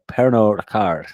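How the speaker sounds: a mild, self-aware French accent on "Pernod Ricard". Shown as a demonstration. Naming the whiskey owner with a light French accent on "Pernod Ricard". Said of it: "in my best French accent".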